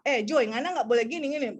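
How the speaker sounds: curt, mildly scolding telling-off. Retold or imitated. An adult scolds Joy, shown as the harsh way. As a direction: snap a child a small rule. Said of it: "daripada orang bilang".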